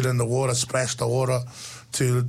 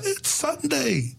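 scolding mama; slower than usual. Retold or imitated. Mamas scolding the swimming kids.

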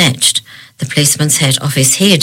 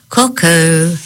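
cuckoo-clock call. Acted. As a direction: sing it like a clock bird. Stuffed giraffe suddenly comes alive.

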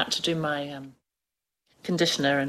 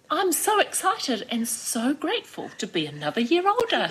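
high, laughing gush of delight; older hairdresser gushing about birthdays, higher and laughing; excited; 10 semitones higher than usual. Retold or imitated. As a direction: bubble over with joy at ageing. Cheerful older hairdresser quoted.

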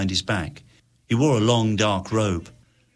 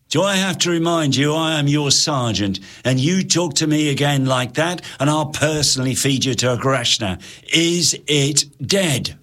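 stern sergeant; 5 semitones higher than usual. Acted. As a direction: warn the insolent soldier. Sergeant rebuking soldier.

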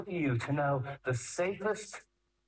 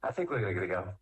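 put-on calm kid; 6 semitones lower than usual. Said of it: "the kid calmly looks at his friend and goes".

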